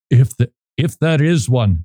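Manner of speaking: badly faked, slight Dutch accent; half-hearted Dutch accent; poor Dutch accent. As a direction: attempt a Dutch accent and barely get there. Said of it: "That's my Dutch accent".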